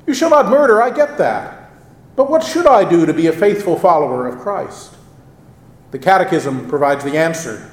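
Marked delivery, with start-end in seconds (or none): 0.1-4.9 earnest questioner. Retold or imitated. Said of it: "the reader is asking".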